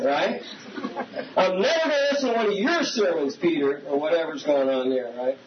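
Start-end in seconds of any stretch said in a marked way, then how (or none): 1.4-3.8 fast, laughing mock complaint; laughing mock huff. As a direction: poke fun at the offended member while laughing. Mock churchgoer storming out, laughing.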